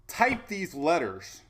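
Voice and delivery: slow, drawn-out computer voice reading the prompt; slow robotic website voice. Retold or imitated. Reading out the Amazon login prompt, slow and robotic. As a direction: sound like a mechanical login screen.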